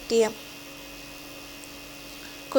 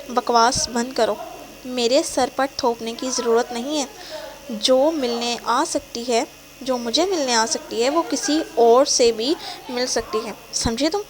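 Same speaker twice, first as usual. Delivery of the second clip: angry. Acted. Boyfriend insulting her character, angry. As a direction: lash out with contempt. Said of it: "وہ غصے سے کہتا ہے".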